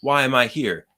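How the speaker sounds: quiz show voice. Acted. Mocking a multiple choice quiz.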